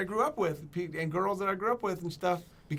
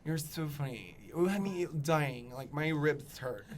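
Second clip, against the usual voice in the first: gay guy impression; 3 semitones lower, 4 dB quieter than usual. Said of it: "he's like".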